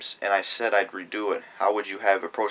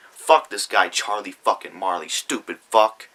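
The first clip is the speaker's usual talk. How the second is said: angry; 4 dB louder than usual. Real, not acted. Ranting at rival.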